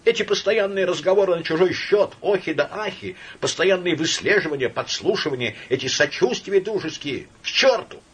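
high, loud, near-screaming rant; hysterical outburst. Acted. Laevsky in hysterics at his friend Samoylenko. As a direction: spill it all out in hysterics.

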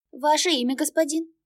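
high, bright-toned ticket clerk; polite service lady at the window; cashier voice. Acted. Cashier asks demon. (вежливая кассирша, высокий голос)

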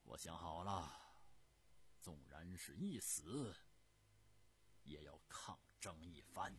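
a mild sneer that turns resolute; cold sneer. Acted. Yan Xun scoffing at the frightened Li, lightly sneering then resolved. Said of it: "严勋冷笑着说".

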